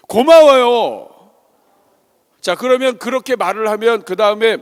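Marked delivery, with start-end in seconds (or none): 0.1-1.3 loud, high, drawn-out thank-you; gushing thanks. Shown as a demonstration. Teaching children to thank a gift-giver, gushing. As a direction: stretch it out with exaggerated gratitude.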